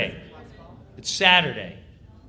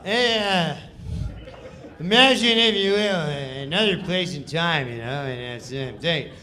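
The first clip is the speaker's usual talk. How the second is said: Norm's careless read; 3 dB louder than usual. Retold or imitated.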